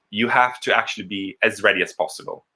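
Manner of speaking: usual speaking voice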